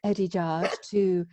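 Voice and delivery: posh podcast host voice. Pretend. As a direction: put on your best podcast voice. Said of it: "You're already posh".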